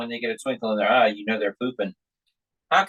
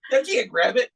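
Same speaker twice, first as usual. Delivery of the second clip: alarmed shout; 6 semitones higher than usual. Retold or imitated. Father reacts to toddler grabbing.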